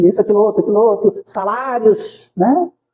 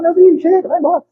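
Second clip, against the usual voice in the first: shooing a spirit away; 10 semitones higher than usual. Retold or imitated. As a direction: send the pestering ghost off.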